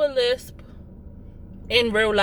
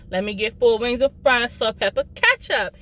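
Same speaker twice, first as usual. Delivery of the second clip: Baltimore order. Shown as a demonstration. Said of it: "that's the Baltimore way".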